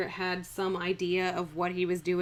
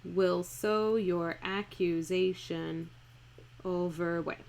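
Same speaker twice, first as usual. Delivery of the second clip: slow scansion read; 4 dB quieter, slower than usual. Shown as a demonstration. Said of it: "let's see if they're iambic".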